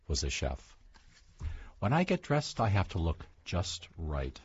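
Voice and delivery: storybook read-aloud; picture book read-aloud, lightly animated; reading to children. Acted. Author reads picture book aloud.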